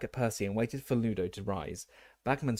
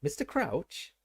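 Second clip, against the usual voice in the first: excited; 6 semitones higher, slower than usual. A narrator's reading. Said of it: "positively writhing with excitement".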